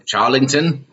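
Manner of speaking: hammed-up fair stall boss; mock manager. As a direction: challenge him like a busybody. Improvised Renaissance fair scene.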